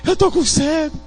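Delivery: put-on thirsty child. Child voiced again.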